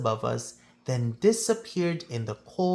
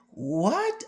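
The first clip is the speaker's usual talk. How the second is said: a mild called-out what, pitched up; yelled question; 6 semitones higher than usual. Acted. Boy calling to the conductor from his doorway, mild yell. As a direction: call back across the noise of the train. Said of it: "I yelled out".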